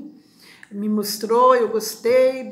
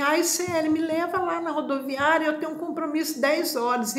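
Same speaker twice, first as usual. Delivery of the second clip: pleading request; 5 semitones higher than usual. Retold or imitated.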